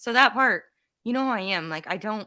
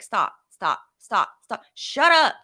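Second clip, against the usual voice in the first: aggressive scolding; 7 dB louder, slower than usual. Retold or imitated. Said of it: "that was very aggressive".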